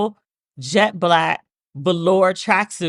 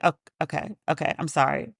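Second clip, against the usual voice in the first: meek apology; 4 semitones lower, 6 dB quieter than usual. Retold or imitated. Apologizing to upset mother.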